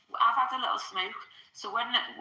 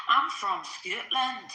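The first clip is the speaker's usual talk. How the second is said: put-on Scottish accent; much slower than usual. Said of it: "I'll do".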